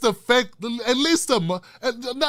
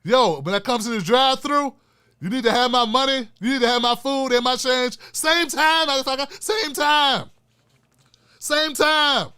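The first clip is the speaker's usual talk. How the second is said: Chris Tucker bit; 2 semitones higher than usual. Retold or imitated. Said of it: "I'm gonna be like Chris Tucker".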